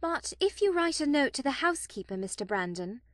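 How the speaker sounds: put-on high, quick girlish pleading; eager. A narrator's reading. Marianne urging Mister Brandon to write a note, eager. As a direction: press the suggestion eagerly. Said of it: "said Marianne eagerly".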